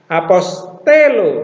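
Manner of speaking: "Apostelo" read slowly, syllable by syllable; "Apostelo" spoken slowly; slow careful reading. Shown as a demonstration. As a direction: draw out "Apostelo" to show the accent. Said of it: "Jadi cara bacanya bagaimana?".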